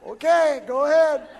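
high, loud comic call; mock shouted go-ahead. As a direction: holler it as a punchline. Acted reply, played for laughs.

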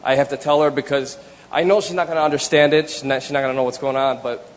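normal talking voice

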